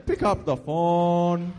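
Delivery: slow, put-on Asian accent; hammed-up Asian accent; mock Asian accent. Shown as a demonstration. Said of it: "say it like an Asian".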